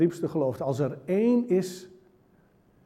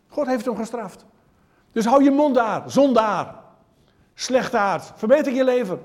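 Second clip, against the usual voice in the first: loud, higher self-righteous rebuke with a nasty undertone; pious but spiteful; 6 semitones higher, 4 dB louder than usual. Acted. Crowd scolds blind beggar as sinner, pious spiteful rebuke. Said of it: "heel vals ondertoontje".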